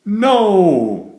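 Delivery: high, loud stubborn no; grumpy yell. A narrator's reading. Grumpy Jim yelling at his friends, loud and high. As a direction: shout it out defiantly. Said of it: "yelled Jim".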